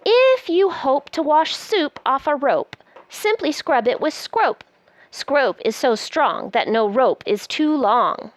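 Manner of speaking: lively, sing-song picture-book reading; reading to children. Acted. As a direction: read it aloud like a bedtime book. Reads the book aloud.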